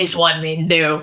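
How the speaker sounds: understated swaggering man; a knowing bro mumble; a touch of macho; mock macho guy. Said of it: "When you say it like that".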